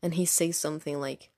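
ordinary talk

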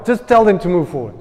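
casual, easygoing retelling of God's command; the pastor's own version. Acted. Pastor retelling God's words his own way, casually. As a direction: toss it off lightly, like an everyday chat. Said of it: "That's his version".

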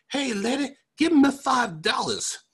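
high-pitched mock punk hassling an old lady; street punk voice. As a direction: squeak it out like a cocky bus punk. Punk hassling grandma on bus.

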